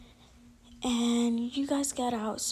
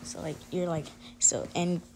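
stuttering; 4 semitones lower than usual. Real, not acted. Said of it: "I keep stuttering".

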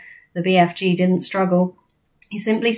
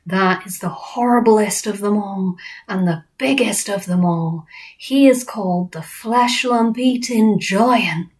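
lightly voiced rustic giant; slowing on the dreaded name; friendly giant, wary. BFG describing the worst giant, wary giant voice.

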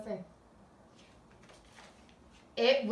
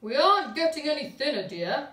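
higher, louder lightly voiced husband; complaining dad; 5 semitones higher, 7 dB louder than usual. A narrator's reading. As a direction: moan to his wife. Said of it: "said Mister Large".

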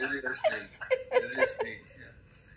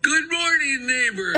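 cheery greeting; 10 semitones higher, 5 dB louder than usual. Real, not acted.

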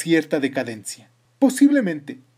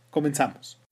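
whisper; 3 dB quieter than usual. Acted. Whispered podcast opener.

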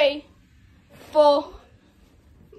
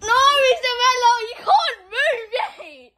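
laughing shout; 4 semitones higher, 5 dB louder than usual. Real, not acted. Friend pulls hand away.

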